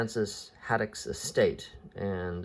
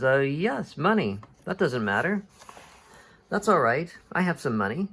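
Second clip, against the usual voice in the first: higher-pitched, lightly played eccentric professor; airy, untroubled offer of help; blithe professor; 6 semitones higher, 3 dB louder than usual. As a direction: brush the worry aside. Calculus blithely offers his money.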